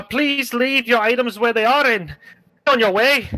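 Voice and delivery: high, rough bandit calling out from the bushes. Acted. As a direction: play a cocky highway robber. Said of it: "you both hear".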